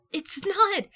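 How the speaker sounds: high, loud, with the stress on not; emphatic denial. A narrator's reading. Steph denying to Jason that it's a sore spot, loud and emphatic. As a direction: fire back a flat no.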